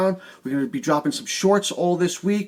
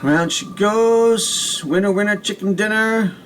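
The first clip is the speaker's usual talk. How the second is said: game show hype; 3 semitones higher, 3 dB louder than usual. Real, not acted. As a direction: hype up the wheel spin like a host. Spinning the prize wheel.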